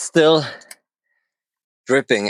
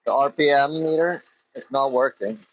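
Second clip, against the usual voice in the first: shouting over engine; 2 semitones higher than usual. Real, not acted. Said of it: "I hope you can hear me over the engine".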